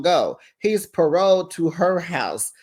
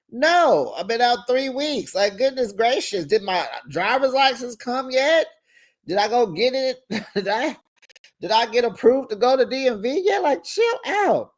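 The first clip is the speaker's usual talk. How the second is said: higher, exasperated defending himself; mock exasperated boyfriend; 7 semitones higher than usual. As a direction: sputter out the excuses, fed up.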